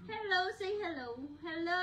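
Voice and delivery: loud, high hello to the camera; bright hello. Real, not acted. Prompting the baby to greet viewers, loud and high. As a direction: cheerfully call out hello.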